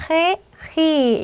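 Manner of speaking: 헤, 히 begun with a Korean ㅎ-like h; breathy h sound. Shown as a demonstration. Teacher showing the sound to learners, careful h on 헤, 히. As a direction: say 헤, 히 with the h clearly sounded. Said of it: "이렇게 발음을 해주시면 되겠습니다".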